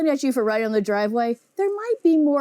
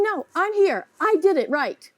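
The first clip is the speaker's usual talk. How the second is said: put-on higher, insistent kid refusing to leave the base; stubborn kid; 5 semitones higher than usual. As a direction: dig in like a child who won't budge. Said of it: "refusing to get off. Saying".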